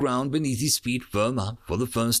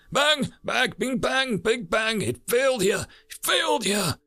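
frantic raving; 12 semitones higher than usual. A narrator's reading. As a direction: spill it out in a frenzy. Sam raving in panic.

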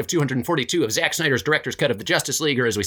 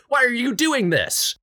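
put-on high, slow pleading child; a pleading kid voice, pitched high; school child; 10 semitones higher, slower than usual. Child asking the robber why, high and slow. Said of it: "School child".

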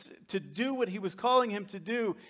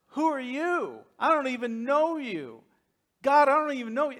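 high-pitched mock arguing; Moses; 5 semitones higher, 4 dB louder than usual. Moses challenges God at the burning bush, imitated arguing. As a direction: challenge with raised pitch, lightly acted. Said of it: "he starts arguing with God".

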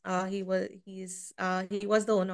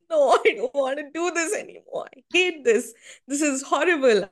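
higher, louder mock-upset outburst; retold tearful protest; 6 semitones higher, 4 dB louder than usual. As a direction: imitate your crying self refusing to go on. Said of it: "I started crying".

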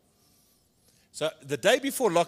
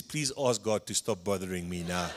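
pleading through laughter; 6 semitones lower, 5 dB quieter than usual. Retold or imitated. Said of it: "He says".

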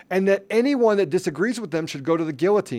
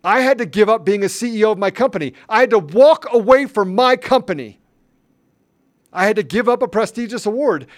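louder, higher angry outburst; heated speech rising in anger; mad; 4 semitones higher, 4 dB louder than usual. Real, not acted. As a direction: let the grievance burst out loud. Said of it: "I'm mad because".

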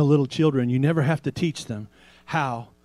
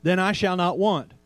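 slow declaration; 2 semitones higher than usual. Shown as a demonstration. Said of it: "We can say it like this".

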